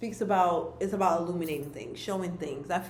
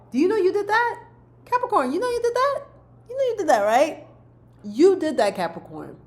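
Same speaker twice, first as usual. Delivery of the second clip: high, loud cheering, like a proud hype friend; excited hype; 10 semitones higher, 7 dB louder than usual. Real, not acted. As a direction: pump them up, voice jumping high. Hyping up Capricorn, cheering them on.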